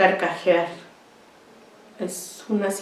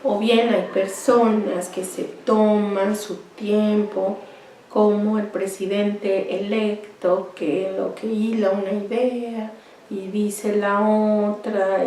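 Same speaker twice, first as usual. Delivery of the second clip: hablando despacio; 3 dB quieter, slower than usual. Shown as a demonstration. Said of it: "un ritmo muy lento".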